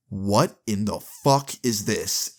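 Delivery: slow, disgusted dad; acting out a disgusted father; retold disgust. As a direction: draw each word out in disbelief and disgust. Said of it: "like, disgust".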